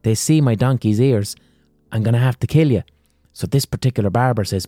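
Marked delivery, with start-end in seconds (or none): 0.0-2.8 fast, raised threat, then settling down; a king rushing out a death threat; mock menace that calms toward the end; threatening king.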